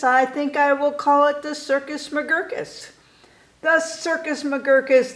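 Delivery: grand announcing. Acted. Boy announces his circus name.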